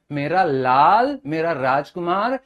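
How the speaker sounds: lightly imitated motherly endearment, slowed a little; a softened echo of a fond mother's coo; doting mother. Teacher repeats what mummy calls us, mildly doting. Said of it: "जैसे mummy जी हमको बोलती हैं".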